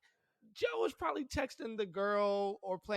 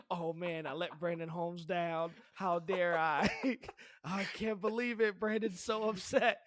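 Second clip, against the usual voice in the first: hammed-up self-pitying player, rising louder; mock whiny player; 5 dB louder, slower than usual. Dad mocking a self-pitying player, hammed-up whine. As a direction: overplay a pro moping about a fan letting down. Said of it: "He goes".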